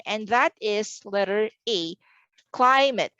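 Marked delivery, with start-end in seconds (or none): 2.5-3.1 "climate" stressed on CLI, pitched higher; first-syllable stress. Shown as a demonstration. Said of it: "Climate is stressed on the first syllable".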